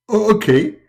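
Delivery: high, eager listener; eager squeaky reply; Muhammad. Acted. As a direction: answer in a high comic voice. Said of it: "and Muhammad, he answer".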